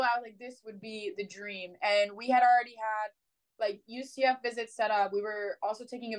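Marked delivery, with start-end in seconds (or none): 0.4-1.8 hushed. Retold or imitated. Awed aside on the phone.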